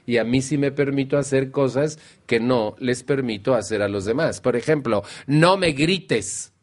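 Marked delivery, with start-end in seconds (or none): 5.3-6.5 slow, high "No me grites", half yelled; imitating someone shouting back, slowly; mock shout. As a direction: yell that you don't want to be yelled at.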